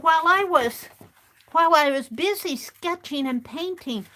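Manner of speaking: lightly voiced little gnome girl. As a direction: tell it like the tiny gnome recounting her night. Gnome girl quoted in story.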